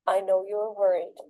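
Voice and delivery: steady, even reassurance; calm reassurance. Retold or imitated. Mother calming her upset son, calm and steady. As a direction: keep it level and patient. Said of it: "And I calmly said".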